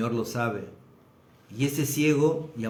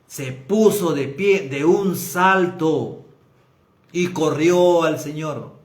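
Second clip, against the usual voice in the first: emphatic preaching; 2 semitones higher, 5 dB louder, slower than usual. Acted. Preacher builds to climax.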